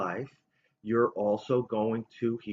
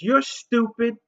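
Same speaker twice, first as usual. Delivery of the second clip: lightly voiced child, higher and louder; a hint of a scornful little girl; mild mock kid insult; 7 semitones higher, 6 dB louder, slower than usual. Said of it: "and she says".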